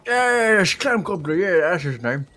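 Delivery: high, loud squeaky echo. Acted. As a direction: copy the squeak back, loudly. Player mimics NPC's high voice.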